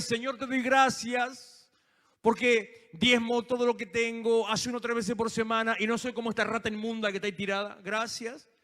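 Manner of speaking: loud, self-satisfied boasting prayer; smug Pharisee. Acted. Pharisee boasts to God about his fasting, loud and smug. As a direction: brag to God as if you were better.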